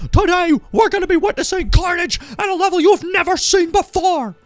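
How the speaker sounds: high, loud, shouting hype call; wrestling commentator. Retold or imitated. Retelling a commentator's wild call to a friend, high screaming hype. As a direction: scream it like a ringside commentator losing it. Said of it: "he sits there and he's like".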